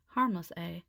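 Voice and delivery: doubting the owl is harmless; doubtful. Acted. Buzz doubting Jessie's reassurance, skeptical. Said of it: "Buzz said doubtfully".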